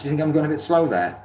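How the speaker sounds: ordinary delivery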